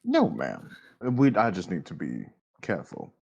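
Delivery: low, formal and courteous; a polite gentleman werewolf, lightly voiced; gentlemanly werewolf voice.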